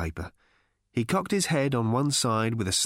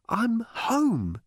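Arthur's voice; 12 semitones higher than usual. A narrator's reading. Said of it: "he repeated".

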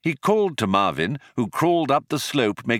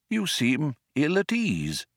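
mildly concerned, higher-pitched; courteous old man's concern; polite concern; 6 semitones higher than usual. A narrator's reading. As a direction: inquire gently and politely. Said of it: "with polite concern".

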